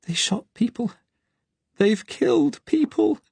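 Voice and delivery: high, climbing, tearful panic; rising hysteria. Acted. Terrified girl in hiding breaks down, rising hysterically. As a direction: let the voice spiral into hysteria. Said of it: "Her voice was rising hysterically".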